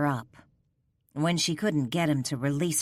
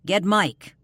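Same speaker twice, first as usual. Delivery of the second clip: sharp barked command, louder; barked order; 3 semitones higher, 6 dB louder than usual. Acted. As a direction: bark it at the team. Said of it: "he barked at his team".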